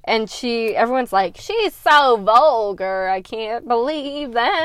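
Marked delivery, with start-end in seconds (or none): 1.4-4.6 slow mock-prim disapproval; hammed-up pearl-clutching; snooty gossip. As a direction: drawl it out like a scandalised courtier. Everyone mocking the drunk aunt.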